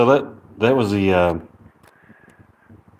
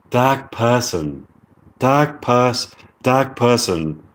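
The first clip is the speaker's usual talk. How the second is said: slow, repeated British accent practice; careful R-dropping British accent attempt; slower than usual. Shown as a demonstration. Streamer drilling the phrase for listeners, slow British accent. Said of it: "British accent, you say".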